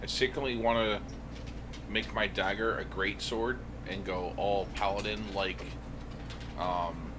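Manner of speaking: usual speaking voice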